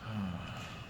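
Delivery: long soft exhale; wordless sigh. Retold or imitated. Two roommates looking at each other, silent sigh. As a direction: let out a quiet, acted sigh. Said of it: "looking at each other like".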